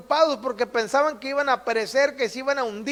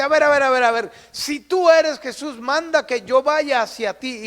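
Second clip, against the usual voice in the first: impetuous challenge; 3 dB louder than usual. Acted. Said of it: "arrebatado, le dice".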